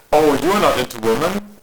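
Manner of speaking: lightly voiced creepy boss; mocking imitation. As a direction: parody his leering question, a touch smug. Coworker's creepy question, mimicked.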